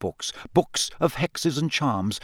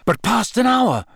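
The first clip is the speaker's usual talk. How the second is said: horror-struck recital; 8 semitones higher than usual. A narrator's reading. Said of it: "Harry recited".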